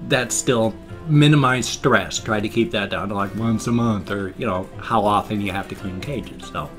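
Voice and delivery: slurring around loose dentures; words slurred around a bottom plate. Real, not acted. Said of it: "I'm slurring around my bottom plate again".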